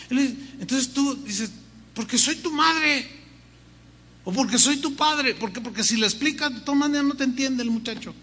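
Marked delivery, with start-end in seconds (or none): 1.9-5.3 a touch of a firm parent laying down the law; lightly voiced parent saying because I said so; mock stern parent. Parent answering child firmly.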